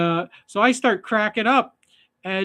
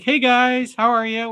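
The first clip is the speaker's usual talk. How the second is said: a bright, polite mother's hello, a bit higher and louder; polite mom greeting; 6 semitones higher, 5 dB louder than usual. Retold or imitated. A polite mother greeting the fishermen on the dock. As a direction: play the friendly mom saying hi. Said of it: "she's all polite and everything".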